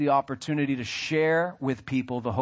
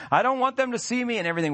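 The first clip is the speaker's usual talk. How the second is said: shy hider; 9 semitones higher, faster than usual. Pretend. Voicing people hiding in shrubs.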